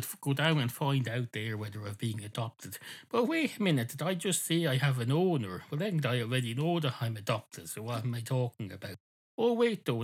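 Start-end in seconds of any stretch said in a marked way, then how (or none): 3.1-5.6 sudden realisation. Acted. Dog catches his own slip. 9.4-10.0 sudden realisation. Acted. Dog realises his mistake again.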